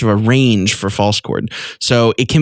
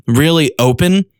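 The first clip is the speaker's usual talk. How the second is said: loud open sigh; 4 semitones higher than usual. Shown as a demonstration. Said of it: "but like a".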